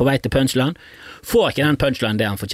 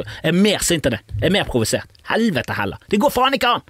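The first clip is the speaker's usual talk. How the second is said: mock outraged agreement; 6 semitones higher, faster than usual. Shown as a demonstration. Stewardess soothing an angry passenger by agreeing, building to a mock rant. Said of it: "Beste måten å takle sånn klaging på er bare sånn".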